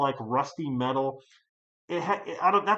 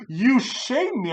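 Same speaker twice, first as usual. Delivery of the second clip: mock old lady wailing; 8 semitones higher, 5 dB louder, slower than usual. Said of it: "She's like".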